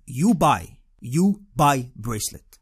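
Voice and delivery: slow, insistent mock African accent; horrible African accent. Street seller gripping a tourist's arm, bad African accent. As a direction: space out each word in a rough African accent. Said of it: "excuse my horrible accent".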